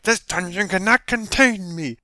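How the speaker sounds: high, drawn-out heroic bellow; hammed-up questing hero proclaiming to the heavens; grandiose adventurer. Acting out a first RPG hero in a dungeon, bombastic cries.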